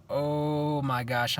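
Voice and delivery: slow, drawn-out oh my gosh; mildly stunned, slow retelling; retold shock. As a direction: stretch it out in mock amazement. Retold shock at flying cup.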